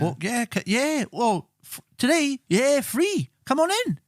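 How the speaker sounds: sing-song high welcome, hammed up; high mock salesman. Mocking a private therapist selling sessions, high and chirpy. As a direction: lure a customer in with a high chirpy voice.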